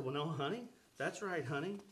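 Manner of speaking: calm her down softly; soothing husband. Retold or imitated. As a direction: gently placate an upset wife. Husband soothing overwhelmed wife.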